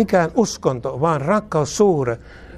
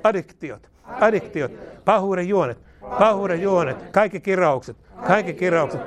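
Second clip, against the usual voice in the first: prayer declaration. Real, not acted. Leads a repeated declaration.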